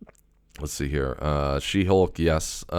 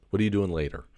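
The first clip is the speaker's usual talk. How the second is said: imitating Dalton; 4 semitones higher, faster than usual. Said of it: "that's how he says it".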